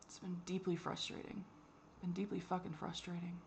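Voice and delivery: whispered, worn-out frustration; frustrated whisper. Real, not acted. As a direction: breathe it out as a tired whisper. Exhausted venting about doctors.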